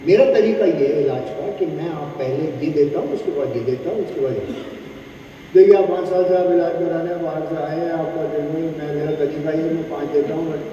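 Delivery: धीमी, नीची, नरम आवाज़ में मरीज़ को समझाइए; मरीज़ को तसल्ली से इलाज का तरीका बताना, नीची आवाज़ में; समझाने वाला doctor. Shown as a demonstration. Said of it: "जैसे आप किसी को समझा रहे हैं". (डॉक्टर मरीज़ को समझाता है, नीची नरम आवाज़)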